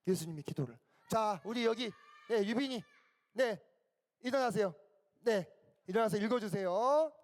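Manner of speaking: normal talking voice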